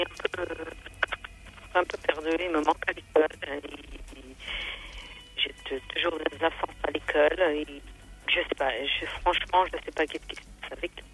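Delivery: breaking up over a bad phone line; crackling phone line. Real, not acted. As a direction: voice cutting in and out on the call. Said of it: "parce que ça grésille, là, on, on n'entend pas du tout".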